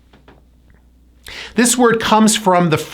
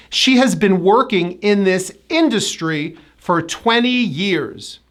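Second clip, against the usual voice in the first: careful example, industry as IN-dus-try; measured model sentence stressing IN of industry; first-syllable stress. Shown as a demonstration. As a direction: hit IN in industry, then drop. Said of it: "the first syllable should be stressed".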